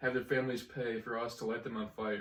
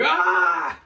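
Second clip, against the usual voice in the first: mock yell; 5 semitones higher, 13 dB louder than usual. Retold dish tank steam burn.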